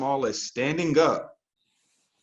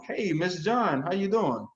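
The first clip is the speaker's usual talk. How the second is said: higher, cheerful hello to a woman; upbeat friendly greeting; 6 semitones higher, slower than usual. Shown as a demonstration. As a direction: greet her like you already know her. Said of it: "If it's a female that answers".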